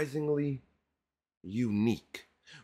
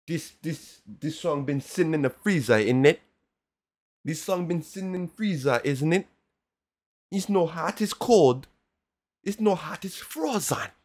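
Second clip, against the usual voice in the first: loud mocking; 5 semitones higher, 6 dB louder than usual. Real, not acted. Mocking the song as cold.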